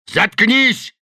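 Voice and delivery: loud, high barked order; Delaney barks at the professor. A narrator's reading. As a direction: bark shut up. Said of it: "рявкнул Делани".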